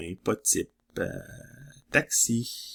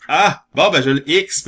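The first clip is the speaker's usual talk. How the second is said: higher, louder burst of delight; excited cry; 7 semitones higher, 12 dB louder than usual. Real, not acted. Announcing the lucky X to the viewers, excited. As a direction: announce the find with a happy shout. Finally finds the missing X.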